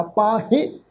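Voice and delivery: ਪਾਹੇ with a short nasal final e; not dragged out. Shown as a demonstration. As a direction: keep the end of ਪਾਹੇ light, without stretching it. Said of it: "ਇਹਨੂੰ ਲਮਕਾ ਕੇ ਨਹੀਂ".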